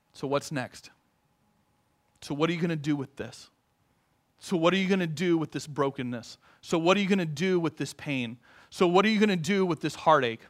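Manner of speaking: soft questions to God; hushed and searching; quiet prayer questions. Retold or imitated. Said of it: "Hold it before the Lord and say".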